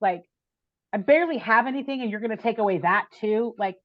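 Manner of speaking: retold rant, building to a sharp screw you; half-acted outburst, hottest at the end; mad at God. Woman venting at God while driving, mock angry rant. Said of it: "but I was mad at God".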